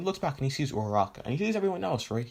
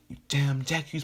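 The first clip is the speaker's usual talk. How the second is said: mildly angry acted outburst, raised pitch; mock anger, pitched up; pissed off; 5 semitones higher than usual. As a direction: play a lightly pissed-off rival. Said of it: "Bakugo gets pissed".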